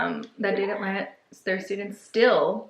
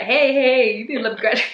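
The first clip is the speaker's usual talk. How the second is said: mock protest; 3 semitones higher, 6 dB louder than usual. Acts out complaint to the doctor.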